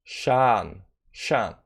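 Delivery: "Shan" low and soft with a long open ah; demonstrated pronunciation. Shown as a demonstration. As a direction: model "Shan" slowly as "shahn", quietly. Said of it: "it's pronounced Shan".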